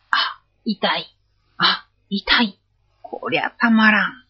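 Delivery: a hurting ogre, drawn-out cries, hammed up; ogre in pain. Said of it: "鬼は苦しがって".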